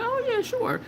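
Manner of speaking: high, airy mock clerk voice; mimicking clerk. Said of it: "And she was like".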